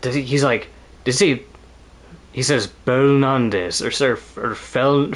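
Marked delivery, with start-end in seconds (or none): 2.8-3.8 "Belnandes" slowly as bone-NON-dis; imitated pronunciation. Streamer recalling how Soma says it, "Belnandes" as bone-NON-dis. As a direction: draw out "Belnandes" with a rounded first syllable. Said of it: "the pronunciation, yeah, like how Soma says".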